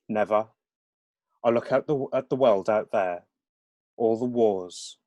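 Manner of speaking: lilting Birmingham dialogue; Brummie accent. Acted. Young Witness defending the organisation to his friend, Brummie accent. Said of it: "aren't familiar with the Brahmi accent".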